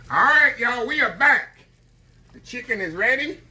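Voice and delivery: high, loud excited greeting. Real, not acted. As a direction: burst back in full of energy. Excited return to camera.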